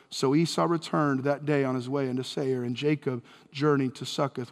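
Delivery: put-on formal reading of an old text; scripture reading. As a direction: read the passage with steady reverence. Reads scripture aloud.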